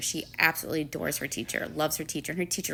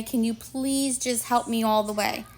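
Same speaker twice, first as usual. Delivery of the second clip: put-on child's plea, pitched up; retold pleading; 5 semitones higher than usual. Child asking Missus J for help cleaning up, imitated pleading. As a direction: imitate a kid begging for help.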